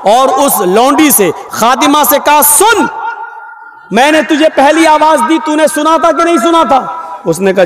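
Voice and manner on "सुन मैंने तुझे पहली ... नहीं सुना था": higher-pitched, stern interrogation; angry questioning. Acted. Prophet questioning the servant who ignored his calls, angry. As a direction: demand an answer from the servant. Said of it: "अल्लाह के रसूल गुस्से में आए".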